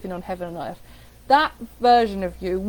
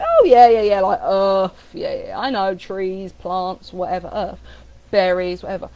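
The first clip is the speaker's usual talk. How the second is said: mock dismissive; 3 semitones lower, 6 dB louder than usual. Mimicking someone dismissive about Earth.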